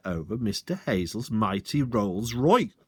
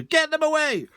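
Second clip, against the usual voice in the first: much higher, louder scream; 4 dB louder than usual. Acted. Landowner screaming as birds land on his car. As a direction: panic for the precious car. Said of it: "screamed Mister Hazel".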